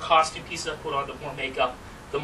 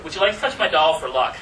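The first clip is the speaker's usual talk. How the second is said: aloof character; 2 semitones higher, 6 dB louder than usual. Acted. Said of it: "I'm going to go into a character".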